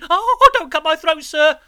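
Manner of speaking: put-on high, loud, panicked child's plea; pleading in terror. A narrator's reading. Boy begs convict not to kill him, terrified. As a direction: beg for your life, voice shooting up. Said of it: "I pleaded in terror".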